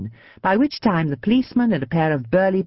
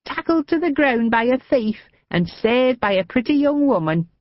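put-on high, tickled old woman; gleeful old lady; 8 semitones higher than usual.

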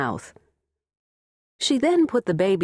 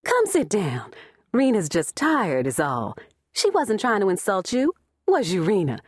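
higher and a bit shrill throughout; 3 semitones higher than usual. Acted. Evelyn soothing her mother, mildly shrill. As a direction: keep the grating high pitch going. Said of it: "in her irritatingly shrill voice".

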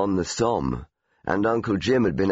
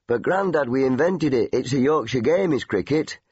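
put-on higher, young protesting voice; indignant boy; 5 semitones higher than usual. Boy protesting to grandad about cricket, higher and indignant. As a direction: insist like a wounded little Yorkshireman.

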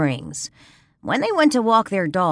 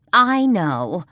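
excited; 3 semitones higher, 4 dB louder than usual. Acted. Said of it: "Carla said excitedly".

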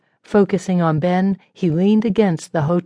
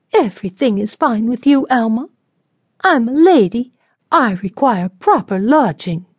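high, louder, scornful; huffy lady; 5 semitones higher, 3 dB louder than usual. A narrator's reading. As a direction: huff at the servant, superior. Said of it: "Sarah huffed".

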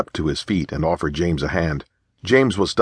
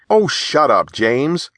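affectionate laugh; 9 semitones higher, 4 dB louder, slower than usual. A narrator's reading. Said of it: "laughed Lee with genuine affection".

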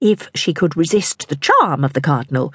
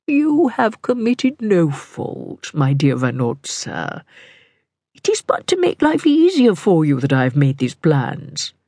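very slow, measured reassurance; soothing, courtly cardinal; slower than usual. Acted. Cardinal assures his mistress she is blameless, soothing.

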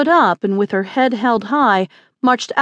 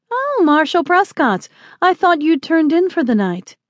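put-on higher young woman's voice, smiling; 7 semitones higher than usual. A narrator's reading. Young lady greeting the marshal in the saloon, smiling. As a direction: greet him with an airy smile in a raised voice. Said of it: "she said with a smile".

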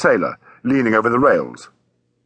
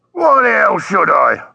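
high, drawn-out indignant protest; indignant refusal; 8 semitones higher, 4 dB louder, slower than usual. Acted. Taxi driver refusing to walk to the ship, indignant. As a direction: protest loudly at the very idea.

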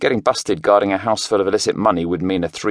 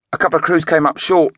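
higher, nervous report; older man reporting; 9 semitones higher, 4 dB louder than usual. A narrator's reading. Oldie reporting short crews to Craig, nervous. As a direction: point it out carefully.

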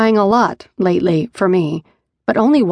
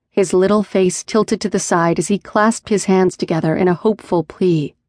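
plain reading voice

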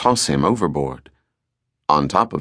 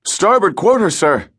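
lookout's call; 11 semitones higher than usual. Acted. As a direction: sing out the bearing to the captain. Lookout answers from masthead.

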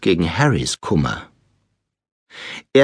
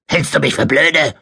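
higher, irritated grumble; raunzend; 4 semitones higher than usual. A narrator's reading. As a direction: snap at the boy in annoyance. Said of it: "raunzte ihn Onkel Vernon an". (gereizt angeraunzt)

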